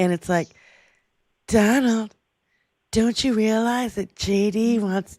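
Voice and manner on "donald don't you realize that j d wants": slow, sultry, sexy female advertisement voice.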